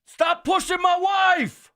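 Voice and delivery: high, loud, slow mock yell; retold yell. Man on the tram yelling at the crowd, a loud slow shout. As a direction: bellow it at the guy crowding the wife. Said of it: "this guy at the top of his voice yells".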